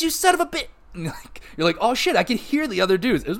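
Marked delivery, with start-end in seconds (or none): 0.0-0.7 cut-off whisper. Retold or imitated. Enemy voice cut off. 1.8-3.2 laughing surprise. Retold or imitated. Recalls his amazed reaction.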